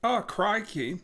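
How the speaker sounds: playful put-on Australian accent; lightly hammed-up Australian exclamation; mock Australian accent. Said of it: "your Australian accent".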